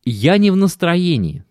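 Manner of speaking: lightly voiced complaining wife; a hint of a tired, whining wife; whiny wife voice. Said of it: "аргументы, которые она приводила".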